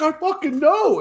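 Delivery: very high, loud mock squeal; freaking out. Boss freaking out to coworker, high loud hammed-up disbelief. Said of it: "he's freaking out".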